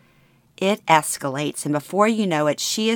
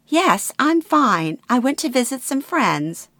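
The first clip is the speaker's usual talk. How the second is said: breezy mother; 8 semitones higher than usual. Acted.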